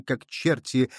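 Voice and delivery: plain reading voice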